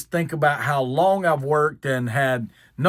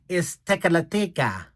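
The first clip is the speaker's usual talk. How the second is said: imitated Filipino accent. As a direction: mimic the server's Filipino-accented reply. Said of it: "the lady's Filipino".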